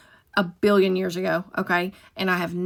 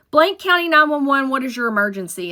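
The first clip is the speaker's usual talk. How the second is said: dispatcher greeting; 4 semitones higher than usual. Retold or imitated. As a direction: sound official on the emergency line. Answering the 911 line.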